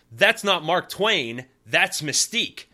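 all caps. Retold or imitated. Reading his own all-caps note aloud, in a slow loud shout. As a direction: yell it out the way it's written in capitals. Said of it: "in all caps".

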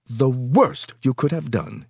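cold, slow verdict; coldly. A narrator's reading. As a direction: pronounce it with chilly contempt. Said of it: "he said coldly".

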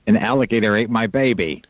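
lightly put-on American accent; fake American accent. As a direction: read it in a mock American accent. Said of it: "with fake American accents".

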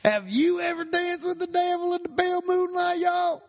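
high, loud Southern twang; a pop singer's voice. Pretend. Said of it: "it's also the y'all".

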